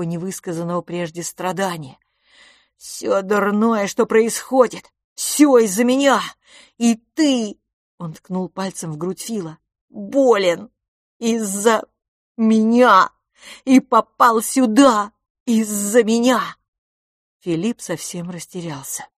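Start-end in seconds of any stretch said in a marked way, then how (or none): 2.8-7.6 slow start building loud and high; boy crying that everything bad is his fault; anguished, slow cry. Boy blames himself. 9.9-16.6 slow, loud, high wailing; boy crying to his twin that he is to blame; slow anguished cry. Acted. Accuses himself to his twin.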